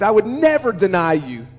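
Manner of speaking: "never" punched out in a firm vow; insist, hitting "never" hard; emphatic denial. Acted. Peter promising Jesus he won't deny him, emphatic. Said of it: "double negative in its strength".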